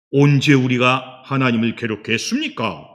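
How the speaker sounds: loud acted comeback; protesting denial. Israelites denying they troubled God, protesting. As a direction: push back hard with the question. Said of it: "이렇게 또 항변을 해요".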